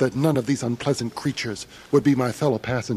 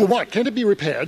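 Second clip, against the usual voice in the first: dismayed surprise; 6 semitones higher than usual. Acted. Traveller dismayed at bus breakdown.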